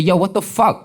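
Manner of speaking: high, loud startled curse; shocked blurt. Retold or imitated. Rob swearing on the morning show, loud shocked blurt. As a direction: blurt it out on live TV. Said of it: "And I said".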